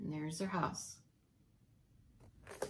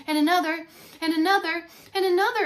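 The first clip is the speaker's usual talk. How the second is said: louder and higher each time; building; 7 semitones higher, 7 dB louder, faster than usual. A narrator's reading. Pig keeps breathing in.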